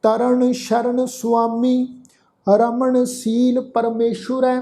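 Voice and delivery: slow, sustained sacred verse; measured Gurbani recitation; scripture recitation. Shown as a demonstration. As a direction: recite slowly, holding the long vowels.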